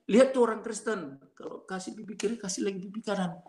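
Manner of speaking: retold mockery of Christians; mocking joke. Preacher making Christians a joke at the mosque, mildly mocking. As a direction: imitate a preacher poking fun, lightly. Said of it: "dibikin jadi lelucon gitu".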